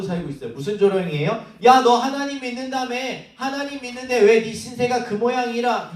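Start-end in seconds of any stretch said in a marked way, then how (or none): 1.6-5.9 sneering mock at a believer's misfortune; mocking taunt. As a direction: taunt him like a schoolyard bully. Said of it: "이러면서 조롱받고 있는 거예요".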